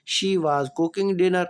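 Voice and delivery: slow, clear dictation pace; slow classroom example sentence; slow example read. Shown as a demonstration. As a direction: spell it out slowly for students. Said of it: "teacher reading example sentence".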